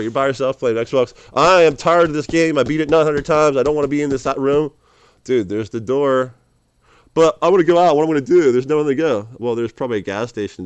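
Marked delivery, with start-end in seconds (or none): 1.3-4.7 loud mock whine; lonely gamer whining loudly; mock bored gamer. 7.1-9.3 loud mock whine; lonely gamer whining loudly; mock bored gamer.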